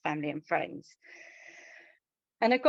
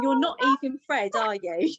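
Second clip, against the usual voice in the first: louder and higher, disbelieving "You're not even Fred"; incredulous; 6 semitones higher, 4 dB louder than usual. Retold or imitated. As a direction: ask the box in stunned disbelief. Talking to the wrong ashes.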